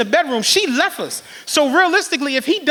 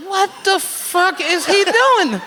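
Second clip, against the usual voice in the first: laughing disbelief; 7 semitones higher, slower than usual. Retold or imitated. Disbelief at knife sharpening.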